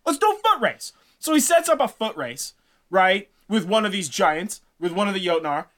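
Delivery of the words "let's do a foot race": high, odd put-on voice of the giant king; a sly giant host setting a trap. Utgarda Loki challenges Thor's crew, high put-on voice.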